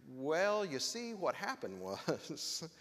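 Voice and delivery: classic excuse-making. Acted. Preacher imitating the man making excuses to God, mock stalling. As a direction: stretch out a sheepish explanation, playing it for a laugh. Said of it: "we have the classic".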